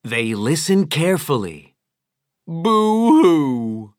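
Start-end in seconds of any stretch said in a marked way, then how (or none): 2.5-3.9 cartoon boo-hoo sob; boo-hoo crying. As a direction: wail a big boo-hoo. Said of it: "Big Whale was really crying".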